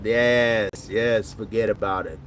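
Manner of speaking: low movie Italian "yes, forget about it"; movie Italian accent. Pretend. Streamer relishing the bartender's line in a movie Italian accent. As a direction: savor it like a wiseguy. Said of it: "another accent maybe I should work on".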